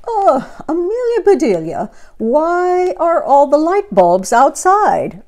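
high, loud, slow startled question; shrill alarm at the lights outdoors; startled cry. Acted. Mister Rogers finding bulbs outside, high startled cry. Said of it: "asked Mister Rogers".

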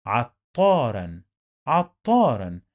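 عطارا ending in a clear "-ran"; teacher modelling عطارا as "at-taa-ran"; final noon sound. Shown as a demonstration. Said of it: "We have the sound of noon in the end".

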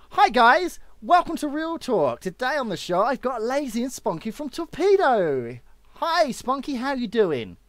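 high, loud over-the-top presenter; exaggerated high-pitched welcome; hammed-up show intro. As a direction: overdo a peppy host greeting.

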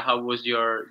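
normal talking voice

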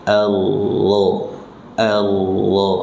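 Allah with the doubled r hidden, no trill at all; no r sound. Shown as a demonstration. Teacher modelling Allah for students, r hidden. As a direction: say Allah smooth, r fully swallowed. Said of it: "jangan sampai ada bunyi r".

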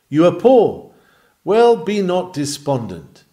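loud, high, ringing pulpit cry; fervent preaching. Acted. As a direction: call it out to the back pews. Preacher exhorting the poor.

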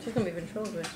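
lips kept still, muffled; talking with mouth closed. Real, not acted. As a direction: speak without moving your lips. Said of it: "How did you talk without moving your lips?".

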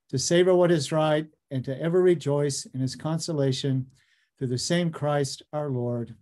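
solemn, measured prayer recitation. Acted. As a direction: pray aloud, steady and reverent. Opening prayer before the lecture.

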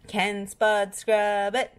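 slow, bouncy catchphrase; slow, playful. Acted. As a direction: sing it out slowly.

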